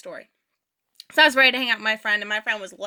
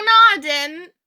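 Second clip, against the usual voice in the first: louder, higher indignant no; stubborn denial; 5 semitones higher, 7 dB louder than usual. Retold or imitated. Stunned friend denying she hit the pole, loud. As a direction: deny it flat out like it never happened.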